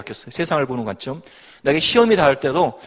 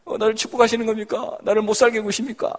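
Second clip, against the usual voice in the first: much higher, anguished pleading to God; desperate old prayer; 7 semitones higher than usual. Retold or imitated. Woman reenacting her past frantic prayers to God, high anguished. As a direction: cry out the doubting prayer, half-acted. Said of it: "뭐 이런 거 기도했는데 지금은 아니에요".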